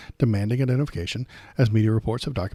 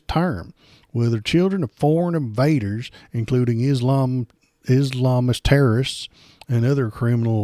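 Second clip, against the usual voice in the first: lightly mocking pundit voice, a bit louder; Mike Davis voice; 4 dB louder than usual. Host mocks a right-wing pundit's post, light mock voice. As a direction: read his post in a mild mock voice of the man. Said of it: "uh, in his voice".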